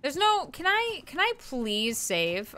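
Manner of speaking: soft pleading. Real, not acted. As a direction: plead quietly with the game. Pleading to save game.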